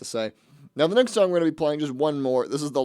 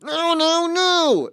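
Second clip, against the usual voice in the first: high, loud mock scream of no; shrill imitated cry of no; mimicking the final scream; 5 dB louder, much slower than usual. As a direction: wail the nos like the song's ending. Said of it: "that final".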